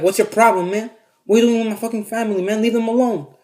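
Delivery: lightly acted angry challenge; confrontational. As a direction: step in and warn him off. Cousin confronting man, acted out.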